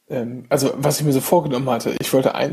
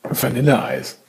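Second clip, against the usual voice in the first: words round a spoonful of ice cream; chewing while talking; 3 semitones lower, slower than usual. Real, not acted. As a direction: mouth full of ice cream. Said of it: "ich esse grad Eis".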